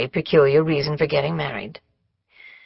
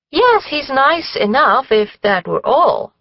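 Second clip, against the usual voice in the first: sighing; 8 semitones higher, slower than usual. A narrator's reading. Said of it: "Miss Cornelia sighed".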